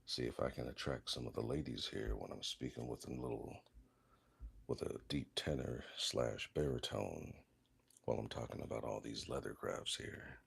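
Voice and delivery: deep audiobook narrator tone. Shown as a demonstration. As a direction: put on a deep tenor-baritone narrator voice. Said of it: "I'll put on my narrator voice".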